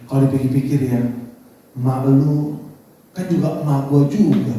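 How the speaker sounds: low, measured, patient concession; retold calm reply. Patient wife accepts her mother-in-law, calm and low. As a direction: answer calmly, pitched well down. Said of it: "orangnya kalem kan".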